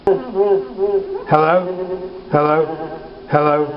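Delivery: hello with a digital echo. Shown as a demonstration. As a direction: slapback echo on the mic. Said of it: "display for you the echo effect".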